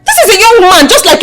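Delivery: insistent, exasperated appeal; indignant protest. Acted. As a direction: argue heatedly, hardly stopping. Arguing with mother for the tenant.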